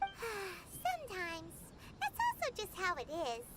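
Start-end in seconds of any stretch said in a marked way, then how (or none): 0.0-1.5 weary sigh. Acted. Paimon answers wearily.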